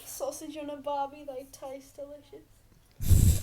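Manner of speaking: hammed-up Australian with a loud slow finish; cheesy Aussie barbecue host; Australian accent. Friends trading silly accents, hammed-up Australian offer. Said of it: "Australian accent".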